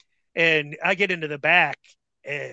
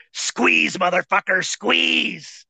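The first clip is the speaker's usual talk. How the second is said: imitating a forceful, strained command; retold urgent order; 2 semitones higher, much slower than usual. Wrestler standing over the bleeding rookie, retold forceful order. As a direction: order him through the effort, mock-urgent.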